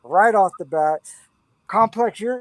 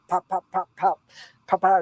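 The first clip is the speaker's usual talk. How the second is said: rhythmic pops. Shown as a demonstration. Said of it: "like popcorn in my head".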